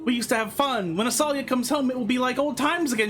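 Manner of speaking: a touch of youthful pleading; pleading child. Acted. Child begging father for fun, lightly acted pleading.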